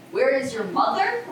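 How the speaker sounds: indignant mimicry, rising at the end; mocking imitation. Juliet quoting the nurse's odd reply, mocking her. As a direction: parrot the question back in disbelief. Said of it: "How awfully thou repliest".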